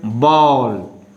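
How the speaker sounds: BALL drawn out slowly to a clear final L; fully sounded L. Shown as a demonstration. Teacher models the word for students, BALL with full L. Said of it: "you will fully pronounce".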